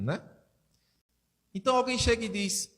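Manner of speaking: usual speaking voice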